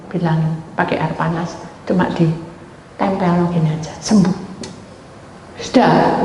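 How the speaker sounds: ordinary delivery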